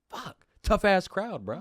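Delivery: high, slow, exaggerated groan at the crowd; mock exasperation. Retelling his speed-dating pitch bombing: slow, high mock exasperation. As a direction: drag it out like a deflated comic. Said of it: "And then I was like".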